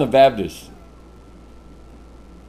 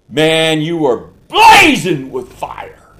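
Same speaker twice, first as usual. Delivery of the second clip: fiery shout; 5 dB louder, much slower than usual. Real, not acted. Preacher stirring the congregation.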